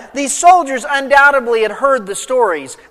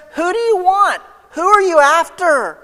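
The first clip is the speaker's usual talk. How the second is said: high, raised, commanding challenge; confident authority; 8 semitones higher, 4 dB louder than usual. Acted. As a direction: demand it boldly, standing your ground. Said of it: "his confidence is so strong".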